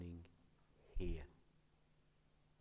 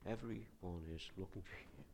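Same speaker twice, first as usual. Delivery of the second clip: flat and a bit softer, like a text; 4 semitones lower, 6 dB quieter than usual. Shown as a demonstration. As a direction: read it as a text message.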